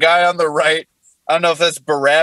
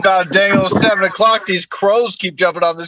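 put-on Jesus, southern accent. Comic voicing Jesus complaining on the cross, southern accent. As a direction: run it together like a southern good old boy. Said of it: "What Jesus said on the cross in a southern accent".

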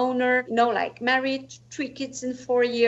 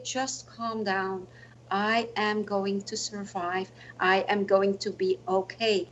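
calm reassurance; 4 semitones lower, 3 dB quieter than usual. Retold or imitated. Patient reassuring sister.

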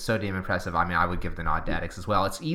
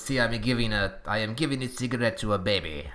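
bad mock French accent, only lightly put on; hammy put-on French accent, half-hearted; Robin Williams French accent. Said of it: "the worst French accent ever".

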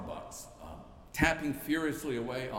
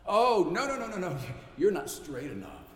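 mock bully; 2 semitones higher, 4 dB louder than usual. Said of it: "Bullies who push people away".

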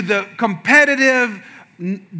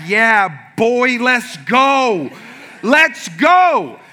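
drawn-out gym hype, pitch climbing; hyped up; 2 semitones higher, much slower than usual. Retold or imitated. Gym newcomer psyching himself up for the workout, hyped. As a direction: pump yourself up, stretching the words.

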